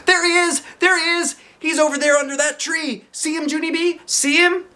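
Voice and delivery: high, loud excited squeals; high excited kid shouting. A narrator's reading. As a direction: jump up and down pointing. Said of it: "very excited".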